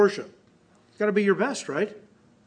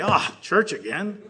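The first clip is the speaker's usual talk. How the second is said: whiny churchgoer; 3 dB louder than usual. Retold or imitated. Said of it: "Like people today".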